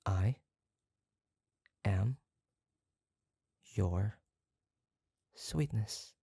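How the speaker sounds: one word at a time, long pauses between; slow dictation. Shown as a demonstration. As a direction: spell it out slowly for them to repeat. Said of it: "repeat after me".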